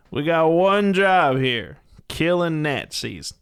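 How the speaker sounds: slow, drawn-out movie tough talk; Brad Pitt. Acted. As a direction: stretch it like a film commando leader. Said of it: "Brad Pitt".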